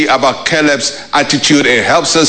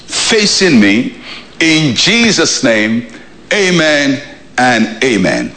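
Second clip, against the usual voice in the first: led prayer. Real, not acted. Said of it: "Let us pray. Say with me".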